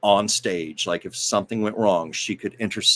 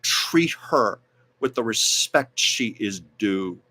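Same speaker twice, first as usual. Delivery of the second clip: a bit louder, firm address to the crowd; mock announcement; 3 dB louder, slower than usual. A singer addressing the Oscars audience, firm and raised. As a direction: demand respect from the room. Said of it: "basically saying to the audience".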